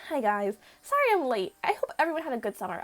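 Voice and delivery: lightly voiced student greeting the class; late student's voice. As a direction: breeze in with an apology, lightly acted. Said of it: "no, he can't sound like Miriam".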